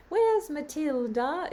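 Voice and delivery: put-on a small child calling round the tables; little British girl. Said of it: "She was this little British girl".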